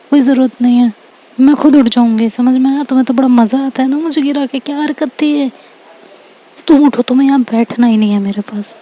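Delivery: mildly annoyed, quick scolding; annoyed retort. Acted. Girl telling off the classmate who made her fall, mildly annoyed. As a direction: snap a little, hurrying through the complaint. Acted quarrel after a fall.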